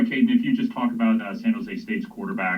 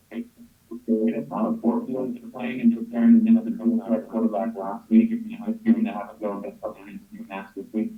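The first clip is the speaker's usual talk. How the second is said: choppy, crackling phone line; bad connection breaking up; robot voice; 4 dB louder than usual. Real, not acted. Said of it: "Andre, you sound like a robot right now".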